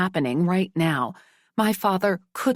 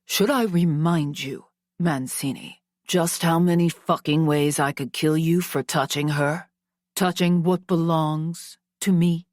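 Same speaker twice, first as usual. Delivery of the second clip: gritted through teeth. Acted. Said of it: "He gritted through clenched teeth".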